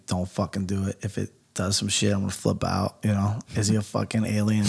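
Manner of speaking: low, hushed worried thinking; nervous inner thought. Retold or imitated. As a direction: think it under your breath, uneasily. Inner thoughts while watching the eye.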